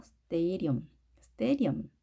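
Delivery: "stadium" with an R-like flapped D; weakened D. Shown as a demonstration. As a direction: say "stadium" as "stay-ri-um". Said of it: "약하게 해주시면". ("stadium"의 D를 R처럼 약하게)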